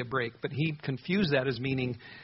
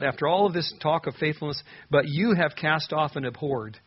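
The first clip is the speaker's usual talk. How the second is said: slow, pained accusation; 4 dB louder than usual. Acted. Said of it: "It's almost hard to read this".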